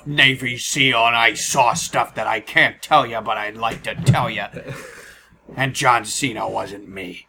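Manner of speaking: lightly voiced tough-guy Jesse Ventura; a hint of a gruff ex-Navy SEAL; Jesse Ventura impression. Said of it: "your Jesse the Mind the Body Ventura impression".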